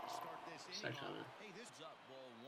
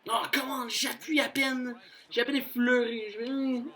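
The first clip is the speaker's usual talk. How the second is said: higher and louder, astonished; surprised; 9 semitones higher, 4 dB louder than usual. Real, not acted. Gamer marvelling at his light button press, high and astonished. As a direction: disbelief at how little he pressed.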